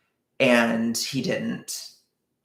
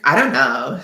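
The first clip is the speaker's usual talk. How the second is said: laughing quote; 10 dB louder than usual. Retold or imitated. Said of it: "And she's like".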